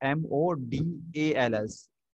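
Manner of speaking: each letter spelled out slowly.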